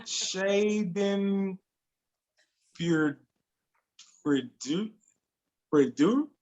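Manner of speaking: sounding out "Shaden Pur-, Purdue" haltingly, piece by piece; tentative "Purdue?" with a questioning lift after long gaps; unsure pronunciation attempt. Real, not acted. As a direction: stumble through "Shaden Pur-, Purdue" as an unknown foreign word. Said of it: "I don't know how to say it".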